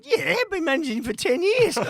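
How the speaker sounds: loud, high boastful fib; excited bluff. Retold or imitated. Agent boasting to a sponsor on the phone, loud and high. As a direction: brag over the top to the caller.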